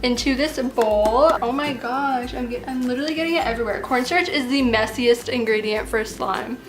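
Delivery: slight lisp from braces; talking around tight braces and bands. Real, not acted. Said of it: "I got my braces tightened yesterday".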